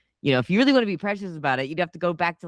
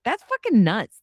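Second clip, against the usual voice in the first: raised, louder retold disbelief; tossed-off mock shock at herself; incredulous; 7 semitones higher, 5 dB louder than usual. Remembering her own realisation, louder incredulous outburst. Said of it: "And I was like".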